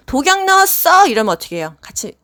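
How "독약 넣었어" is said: put-on higher, louder accusing old patient; teacher voicing a patient's poison accusation, mock alarmed; mock paranoid patient. Patient claims food poisoned.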